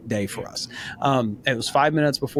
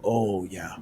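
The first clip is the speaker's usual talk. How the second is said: softer, sheepish "my bad"; humble admission; 4 semitones lower, 7 dB quieter than usual. Husband admitting to his wife he wasn't listening, soft and sheepish. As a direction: own it quietly and humbly. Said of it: "humble enough to go".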